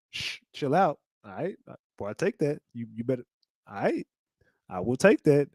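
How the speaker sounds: soft, slurred mock drugged voice; drugged mumble. Imitates a drugged rapper.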